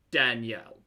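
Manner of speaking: Danielle drawn out as dan-yell. Shown as a demonstration. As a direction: spell out Danielle slowly in two beats. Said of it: "Just said a little slower".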